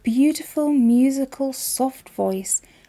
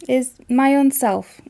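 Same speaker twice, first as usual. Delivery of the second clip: Yorkshire accent; 3 semitones higher, 4 dB louder, slower than usual. Shown as a demonstration. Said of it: "when you get our accent".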